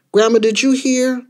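put-on high-pitched questioning kid; urgent child. Child asking Grandma about the news, urgent. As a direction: ask Grandma as if needing an answer now.

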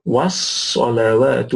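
slow Was-salawatu, waw kept flat; careful model pronunciation. Shown as a demonstration. Teacher showing learners the flat waw in Was-salawatu, slow model pronunciation. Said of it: "the waw is flat".

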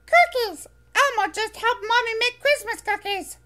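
high, bright little furry monster voice, eager; squeaky childlike monster, proud; Elmo voice. Acted. Elmo excited answer.

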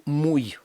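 «муй» in one syllable ending in й; final y as й. Shown as a demonstration. Teacher explains the letter, short й ending. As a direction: close «муй» with a short consonant-like й. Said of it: "так як ніби це була б буква «йод»".

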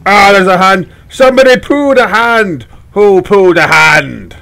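loud mock-horrified exclaiming; horrified outcry. Player finds a hand in the game, horrified outcry. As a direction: shout it in hammed-up disgusted shock.

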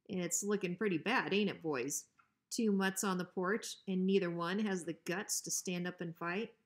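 a hint of a bully's taunt; lightly voiced menacing dog. Bruiser taunting the two dogs on the porch, mildly menacing. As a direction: sneer it at them from the dark.

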